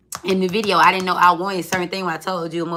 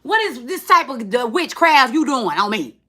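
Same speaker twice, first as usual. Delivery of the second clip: mock flirty protest; 5 semitones higher, 4 dB louder, slower than usual. Partner cuddling, mock flirty protest.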